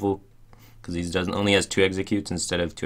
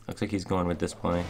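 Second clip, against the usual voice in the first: ordinary talk, nothing marked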